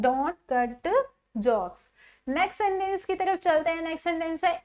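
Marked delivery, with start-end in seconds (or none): 0.0-1.8 very slow, words stretched apart; slow demo. Shown as a demonstration. Teacher repeating the English for the class, very slow. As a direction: lay the phrase out slowly. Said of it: "तो मजाक मत करो".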